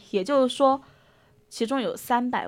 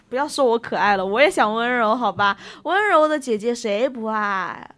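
playful protest; 5 dB louder than usual. Real, not acted.

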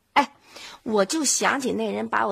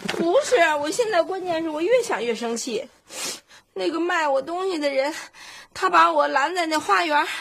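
worked-up anger; 6 semitones higher than usual. Acted.

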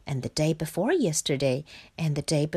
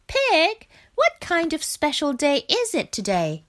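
higher, louder call to Pig; 11 semitones higher, 4 dB louder than usual. Acted. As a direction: call across to a friend. Frog calls out to Pig.

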